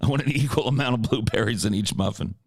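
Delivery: plain-voiced retake of the muffin line; the same line repeated flatly; Ace Rothstein imitation. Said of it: "Ace Rothstein's blueberry muffin".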